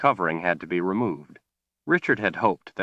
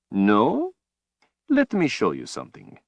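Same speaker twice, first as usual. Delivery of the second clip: a cold, gloating overlord; menacing villain; 4 semitones higher, 3 dB louder than usual. Acted. Villain Rahl speaks.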